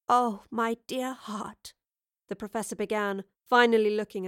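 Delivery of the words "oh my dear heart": slow, gentle address; tender consoling. A narrator's reading. Professor finally facing distraught Astrid, tender. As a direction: console her slowly and tenderly.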